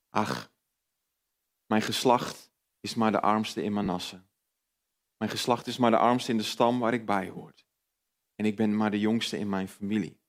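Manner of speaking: a mildly voiced inner critic, sighing over being poorest and youngest; self-doubting inner voice. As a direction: talk yourself down like a nagging inner voice. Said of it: "Maar dan kwam er een stemmetje".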